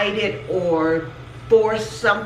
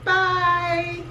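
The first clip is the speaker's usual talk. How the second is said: high bye; 11 semitones higher than usual. Real, not acted. Mom joins the sign-off.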